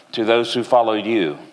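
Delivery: gentle, earnest prayer that settles down at the close. Acted. Preacher praying for the congregation, earnest and gentle. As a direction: pray it humbly, easing off toward amen.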